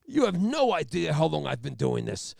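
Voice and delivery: loud trooper speech with dramatic pauses; mock self-important cop lecturing the room; Jack Nicholson. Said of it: "there's pauses and shit".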